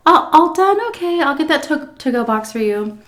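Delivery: imitating the waitress. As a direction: put on a bright fake-friendly server tone. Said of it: "and she goes".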